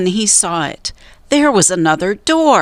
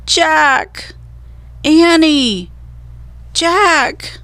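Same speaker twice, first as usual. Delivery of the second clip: calling out; 9 semitones higher, much slower than usual. A narrator's reading. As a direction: shout each other's names. Siblings calling to each other.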